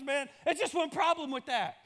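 a comic pig answering the hen. Retold or imitated. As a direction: play the pig as the punchline. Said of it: "The pig goes".

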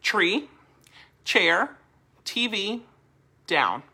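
TREE, CHAIR, T V, DOWN as evenly spaced single words; matter-of-fact command. Shown as a demonstration. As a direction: say DOWN like naming an object, without lifting the end. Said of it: "just say it just like this".

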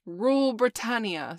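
high, loud squeak. Acted. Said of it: "squeaked Curly".

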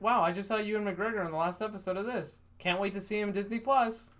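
nerdy voice. Acted. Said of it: "sorry for my white nerdy voice".

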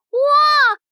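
loud high wow of delight; excited gasp. Acted. First sight of candy kingdom.

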